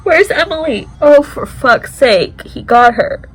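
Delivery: high, loud frustrated cry; exasperated outburst. Real, not acted. Viewer yelling as a character is taken, exasperated. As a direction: let it burst out in frustration. Shocked, swearing at scene.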